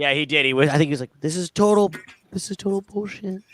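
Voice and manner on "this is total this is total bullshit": quiet, pitched-up mumble under the breath. Retelling a curse muttered at the end of a radio segment: imitating Pat Crichton saying it quietly. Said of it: "He just said it, like, quietly".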